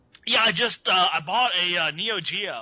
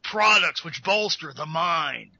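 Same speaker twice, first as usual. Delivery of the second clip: Alex Jones marketing voice. Acted. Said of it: "the Alex Jones marketing voice".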